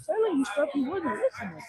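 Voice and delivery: heated venting. Real, not acted. Venting about people ignoring advice.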